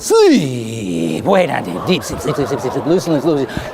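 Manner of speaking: stage hypnotist putting a crowd under; hypnotic sleep command. Acted. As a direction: drop low and hush into a trance chant.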